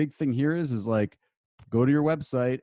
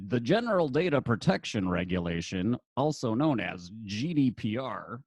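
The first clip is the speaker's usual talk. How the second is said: nerd voice. Pretend. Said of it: "I'm gonna use my nerd voice".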